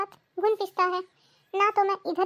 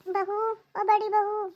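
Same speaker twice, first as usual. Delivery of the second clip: calling out; much slower than usual. Acted. Mother-in-law calls daughter-in-law.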